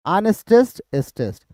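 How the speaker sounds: up on unstressed, down on stressed; alternating beat demo. Shown as a demonstration. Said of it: "ये हो गया unstress". (अनस्ट्रेस्ड ऊपर, stressed नीचे)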